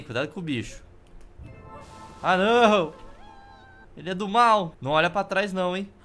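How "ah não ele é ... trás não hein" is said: scared horror game streamer. Real, not acted. Monster appears in horror game.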